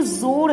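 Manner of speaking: जोर with a z sound, zor; correct z sound. Shown as a demonstration. Teacher showing pupils how to say जोर, zor with a z. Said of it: "जेड का उच्चारण होगा".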